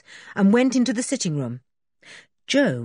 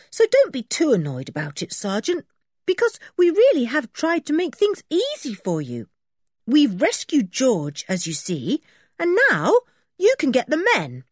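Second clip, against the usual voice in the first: put-on high, eager boy explaining; Dick's boyish voice; 11 semitones higher, 4 dB louder than usual. Boy telling the sergeant the men are locked up, high and eager. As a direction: rattle off the news like a proud schoolboy.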